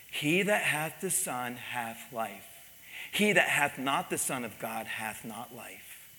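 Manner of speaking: slow, measured recitation; calm. Retold or imitated. Pastor answering an enraged husband with scripture, calm. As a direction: quote it evenly and unhurried. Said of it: "I just said calmly".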